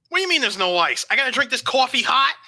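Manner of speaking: mock intimidation. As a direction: play indignant to scare him, loud and high. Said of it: "then you scare him by saying".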